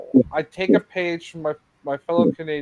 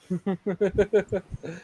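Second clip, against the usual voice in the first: a real burst of laughter; laughing; 5 semitones higher than usual. Real, not acted. Laughing after the impression.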